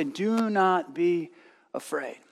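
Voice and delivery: slow, softening heavenly voice; slow right down and let it fall to a hush; solemn voice. Retold or imitated. Mother retelling the voice in the light, slow and hushed. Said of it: "I heard a voice say".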